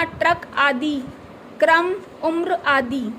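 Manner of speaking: ट्रक, क्रम, उम्र said slowly and carefully; careful reading of example words. Shown as a demonstration. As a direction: spell out each word slowly. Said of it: "ड्रामा".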